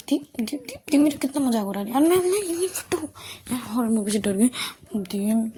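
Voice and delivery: put-on a huffy girl griping to herself; whiny indignant grumble; grumbling complaint. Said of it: "बड़बड़ा के, मतलब, कुछ बकबक करते हुए".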